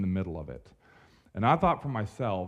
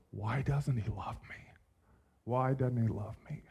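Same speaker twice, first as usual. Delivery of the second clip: retold tearful plea; 5 dB quieter than usual. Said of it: "collapses in tears".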